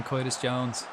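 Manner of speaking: Curtis turned into "Coitus"; oy vowel in Coitus, for Curtis; funny pronunciation. Shown as a demonstration. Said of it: "I just say it 'cause I think it's funny".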